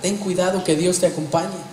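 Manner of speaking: worried mother. Retold or imitated. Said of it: "La mamá preocupada le dice".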